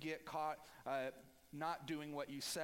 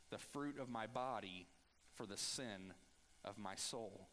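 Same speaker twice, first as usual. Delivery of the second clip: slow, measured reading of the passage; scripture reading; slower than usual. Acted. Pastor reading Micah to the congregation, slow and measured. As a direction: read it out slowly, like a lesson.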